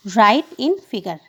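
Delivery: very slow, each word spaced out; slow dictation. Real, not acted. Teacher dictating a heading to children, very slow. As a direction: dictate it word by word for the class to copy.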